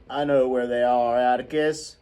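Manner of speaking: a hint of a gruff old man; Mr Underwood. Mr Underwood calling out where the children are, dryly.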